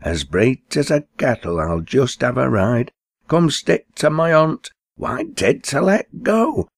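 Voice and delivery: high, excited sliding squeal; Betty's squeal. Acted. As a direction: squeal with glee as she slides off. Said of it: "Says Betty at Robin's".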